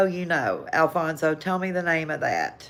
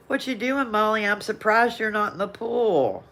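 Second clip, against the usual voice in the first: bright teasing call to her granddaughter, higher; playful teasing; 5 semitones higher than usual. Real, not acted. Grandmother teasing granddaughter Molly in the chat, playful and high. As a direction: tease her like you've spotted her.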